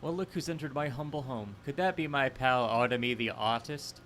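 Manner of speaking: hammed-up British villain; bad British. Greeting his pal Artemy, in a bad British villain voice. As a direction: put on a bad British accent. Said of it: "bad British".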